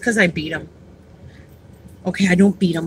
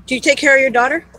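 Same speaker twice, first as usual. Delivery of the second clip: polite approach; 6 semitones higher than usual. Retold or imitated. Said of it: "I said".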